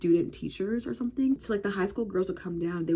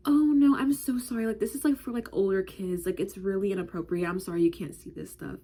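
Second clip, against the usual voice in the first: put-on apologetic teen. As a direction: let a kid down gently, gushing at first. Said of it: "And she was like".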